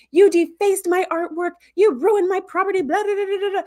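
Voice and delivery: a lightly voiced furious hologram; mock furious Doctor. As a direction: ham up the Doctor's indignant rant. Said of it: "the Doctor's furious".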